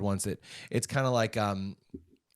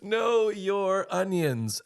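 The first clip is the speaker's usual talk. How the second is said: slow repetition; 7 semitones higher, much slower than usual. Shown as a demonstration. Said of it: "repeating phrase slowly".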